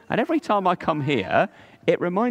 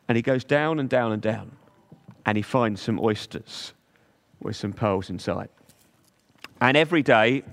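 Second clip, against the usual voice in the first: story narration. Acted. Telling children about the pearl diver, storybook narration. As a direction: read it like a bedtime tale for little ones.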